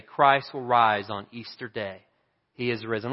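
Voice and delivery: slow, measured poem reading; solemn declaimed Easter verse; poem recitation. Acted. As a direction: recite it slowly with weighty pauses. Reads a poem aloud.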